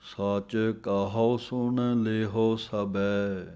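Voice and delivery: slow, measured recital of the verse; slow scripture recitation. Shown as a demonstration. Teacher reciting the verse for students, slow and measured. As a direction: read the verse word by word. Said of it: "ਕਹੋ ਪਾਠ ਹੈ".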